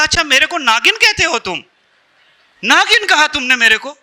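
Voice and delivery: mildly affronted, voice lifted; acted indignation. Wife challenging husband over the name, mock indignant.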